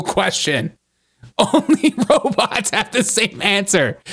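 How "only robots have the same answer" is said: higher-pitched mock robot. Host mocking the candidate's repeated answers, robot voice.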